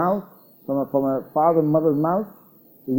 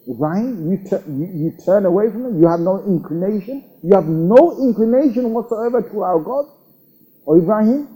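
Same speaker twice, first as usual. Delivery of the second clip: rising higher with each question; indignant father; 5 semitones higher than usual. Retold or imitated. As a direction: build the father's outrage, climbing higher. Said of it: "his father snapped at him".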